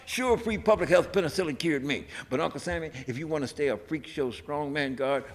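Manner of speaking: fiery, rhythmic poem delivered to a crowd; poem recitation. Retold or imitated. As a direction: declaim it like a street-corner protest poet. Recites his anti-war poem.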